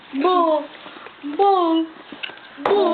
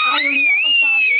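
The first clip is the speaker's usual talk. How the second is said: shout; 4 dB louder than usual. Real, not acted. Calling to child.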